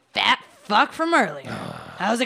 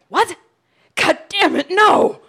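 anguished shout; 7 semitones higher, 5 dB louder than usual. Acted. Friend just died.

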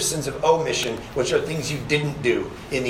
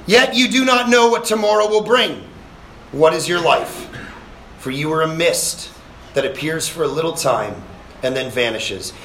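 scripture reading. Acted. Reads James aloud.

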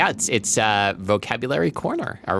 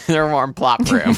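mock-serious; 6 semitones higher, 4 dB louder, slower than usual. Mocking the word plop.

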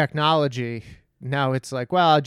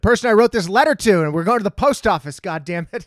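irritated; 4 semitones higher, 7 dB louder than usual. Retold or imitated. Retold angry reply to heckler.

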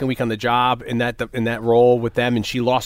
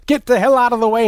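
higher, louder brusque order; mock bark; 10 semitones higher, 4 dB louder than usual. Boss pushing through the subway crowd, louder. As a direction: clear the way, brusque.

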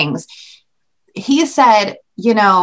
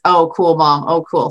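put-on bored teen; 5 semitones lower than usual. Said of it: "he just".

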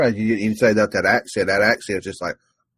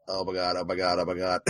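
stunned oh my god; 5 semitones lower, 10 dB quieter than usual. Retold or imitated. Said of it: "you're just there like".

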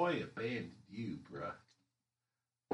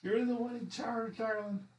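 flirty; 11 semitones higher than usual. Acted. Flirting with the orc leader.

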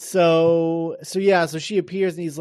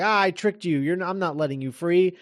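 mad scientist; 3 semitones higher than usual. Retold or imitated. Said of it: "he's like".

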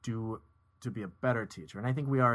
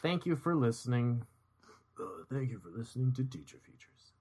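radio voice. Acted. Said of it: "you do your radio voice".

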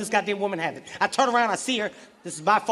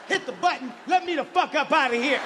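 irate demand; 5 semitones higher than usual. Acted. Irate driver to booth attendant.

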